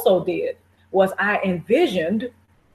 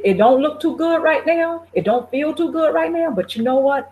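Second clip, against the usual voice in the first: pep talk to yourself. Retold or imitated. Visualizing moving forward despite hard times, hopeful. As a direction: reassure yourself you will land on your feet. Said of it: "You have to pep talk yourself and say".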